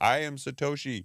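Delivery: imitated, put-on heavy Indian accent. Retelling a social media guy's claim to be Satoshi, in a heavy Indian accent. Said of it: "had like a very heavy accent who was like".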